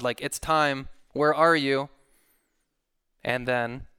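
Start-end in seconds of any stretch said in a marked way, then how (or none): 0.2-1.9 acted demand, pushed a little louder; impatient mock challenge to heaven; accusing God. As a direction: imitate a prophet calling God to account. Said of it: "as if he's sticking his finger up at God".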